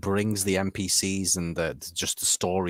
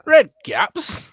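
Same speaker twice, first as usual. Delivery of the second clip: Red caps said much higher and louder; high squeaky echo; 8 dB louder than usual. Shown as a demonstration. Echoing the misread word.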